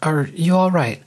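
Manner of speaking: high, lightly amused question; through gentle laughter. A narrator's reading. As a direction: ask with a touch of gentle amusement. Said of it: "said through her gentle laughter".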